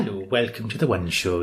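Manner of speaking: mock TV presenter. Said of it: "all like".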